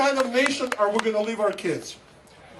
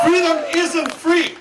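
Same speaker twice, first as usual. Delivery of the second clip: slow, higher-pitched slogan shout; rally the crowd, drawing out each word; rousing rally cry; 5 semitones higher, slower than usual. Real, not acted. Immigrant author repeats his message to Tea Party crowd, rousing rally cry.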